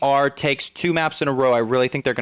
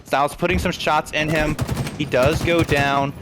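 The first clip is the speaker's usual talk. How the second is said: lively live esports commentary; play-by-play; 3 semitones higher than usual. Real, not acted. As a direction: call the match action as it unfolds.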